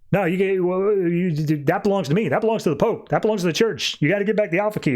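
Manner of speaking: stammer, then insist on ownership, mock outrage; indignant protest. Pope demands Brute return the key, indignant.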